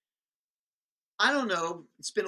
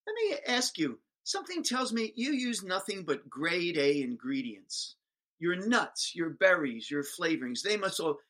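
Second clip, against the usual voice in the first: coaxing teacher; 2 semitones higher than usual. Retold or imitated. Teacher coaxing the ice cream man toward her trap. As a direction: reel him in gently.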